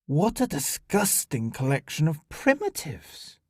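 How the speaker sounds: haughty disgust, swooping on key words; disdainful sneer. Acted. Alien officer surveying the airshow crowd, disdainful. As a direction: look down on the primitives.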